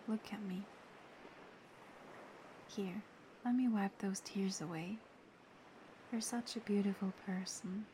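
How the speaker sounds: soft, gentle affection; tender praise. Acted. Wiping a friend's tears away, gently and tenderly praising them. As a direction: soothe them with quiet sincerity.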